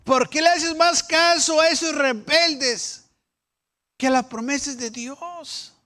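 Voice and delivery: high, loud challenge; loud rebuke. Acted. Preacher challenging the doubting people, loud and high. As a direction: demand why they believe rebels.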